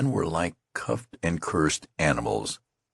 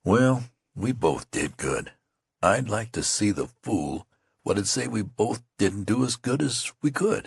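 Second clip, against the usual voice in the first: soothing; 4 semitones higher than usual. Acted. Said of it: "spoke soothingly to his comrade".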